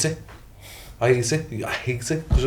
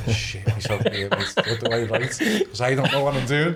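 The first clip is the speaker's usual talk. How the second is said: laughing mock panic. Mock panic over writing an essay.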